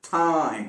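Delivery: टाइम begun with a breathy ठ; aspirated T. Shown as a demonstration. Teacher correcting the wrong take, टाइम said as "thaim". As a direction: let a puff of air out on the T of टाइम. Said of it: "ठ होगा".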